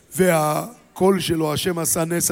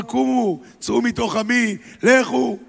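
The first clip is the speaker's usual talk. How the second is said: high proclamation; 4 semitones higher than usual. Acted. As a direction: urge them out in a raised voice. Pharaoh proclaims release. (פרעה מכריז בקול גבוה)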